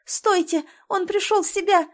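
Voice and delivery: high, loud outcry; high joyful shout to stop them; excited shout. A narrator's reading. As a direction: shout out the good news. She shouts to the crowd.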